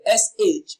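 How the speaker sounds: "sh" as a drawn-out hushing consonant; isolated SH sound. Shown as a demonstration. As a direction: say just the "sh" sound, no vowel. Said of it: "transcribed or pronounced as".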